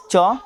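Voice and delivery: च as "chuh", one short syllable; CH sound. Shown as a demonstration. Teacher listing joined-letter sounds, च sounded out as "chuh". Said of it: "संयुक्त अक्षरों का उच्चारण सीएच".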